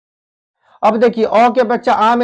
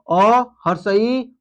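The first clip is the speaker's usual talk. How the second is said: slow listing; much slower than usual. Shown as a demonstration. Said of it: "ये सब का सब जो है यहाँ पर हर्ष स्वर है".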